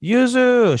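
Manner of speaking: high, drawn-out falsetto call; imitated calling out. Man calling to lost girl in snow, high imitated call. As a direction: call her name from afar, way up high.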